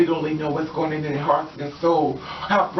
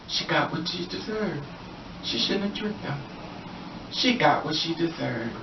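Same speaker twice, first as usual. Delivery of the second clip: soft, slow, cold mocking; mock dismissal; 7 dB quieter than usual. Onlookers judging the dead woman, soft slow mockery. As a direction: hush it out like callous gossip. People dismiss her murder.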